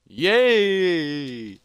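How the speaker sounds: loud, high, drawn-out cheer; high-pitched jubilant whoop; excited cheer. Acted. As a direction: celebrate a small triumph. Hero cheers his success.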